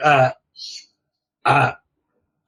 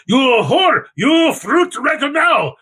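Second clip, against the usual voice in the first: high, slow, shouted command; mock shouting; 9 semitones higher, much slower than usual. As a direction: bellow at the mushroom log. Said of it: "the Japanese are like".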